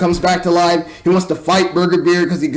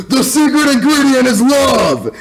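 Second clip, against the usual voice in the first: laughing quote; 7 semitones higher, 3 dB louder than usual. Retold or imitated. Quoting villain mid-laugh.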